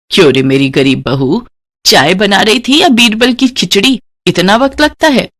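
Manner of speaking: scornful, sneering mother-in-law; mock her like a haughty mother-in-law; taunting mother-in-law. Mother-in-law taunting the poor daughter-in-law, sneering.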